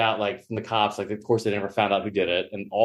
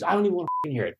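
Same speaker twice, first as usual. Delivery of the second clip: host ripping into him; 6 semitones higher, much faster than usual. Retold or imitated. Host scolds the late comic, mock irritation. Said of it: "ripping into me".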